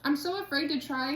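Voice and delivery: talking through a mouthful of donut; words round a bite of food; mouth full. Real, not acted. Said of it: "Let me not talk with my mouth full".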